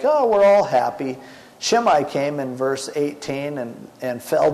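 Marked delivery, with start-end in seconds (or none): 0.0-1.2 high, mock happy sing-song; fake cheer. Crowds pretending all is well, in mock cheer. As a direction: play it as fake, put-on cheer. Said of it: "Everyone's acting like".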